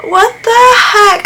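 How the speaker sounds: real shock at a broken leaf; shocked surprise. Real, not acted.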